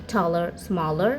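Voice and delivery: "taller, smaller" drawn out very slowly with the a as অ; slow, careful a as অ. Shown as a demonstration. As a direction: stretch each word slowly, vowel like Bengali অ. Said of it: "এর উচ্চারণ হয় অ এর মতো".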